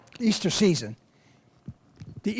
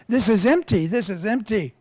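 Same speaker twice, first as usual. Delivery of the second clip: higher-pitched mock protest; lightly acted exclamation, repeated; retold bellhop complaint; 3 semitones higher than usual. Bellhop shaking the suitcase, complaining.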